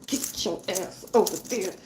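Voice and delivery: slow, deliberate command from the universe. Retold or imitated. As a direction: drag out the order as the universe. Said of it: "The universe is like".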